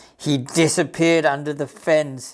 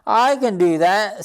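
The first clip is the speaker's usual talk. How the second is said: higher, eager bounce; excited; 5 semitones higher, 3 dB louder than usual. Acted. Rabbit eager to copy the cockerel, excited. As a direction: jump in keen to try. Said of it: "said Rupert excitedly".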